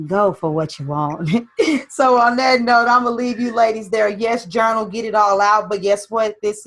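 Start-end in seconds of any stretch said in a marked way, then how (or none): 0.1-1.3 low mock-sultry echo. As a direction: tease her sultry line, lower. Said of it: "sultry voice that comes in".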